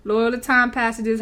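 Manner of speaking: repeated through a laugh. Real, not acted. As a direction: say it again while laughing.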